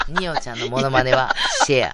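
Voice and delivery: low mimicking voice with laughter around it; ニオちゃん impression. Repeating the impression as co-host laughs, low mimicking voice. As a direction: put on a deep character voice.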